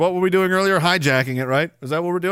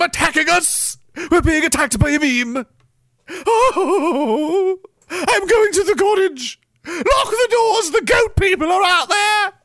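high, hammed-up fearful wailing; mock panic; 7 semitones higher than usual. Senator fleeing to the cottage, high mock panic. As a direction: wail like a paranoid official fleeing.

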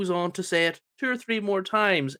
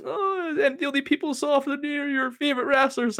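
mocking Punk impression; 10 semitones higher than usual. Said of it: "you're like".

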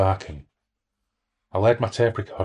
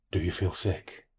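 eerie whisper; 5 dB quieter, slower than usual. A narrator's reading. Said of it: "it asked me".

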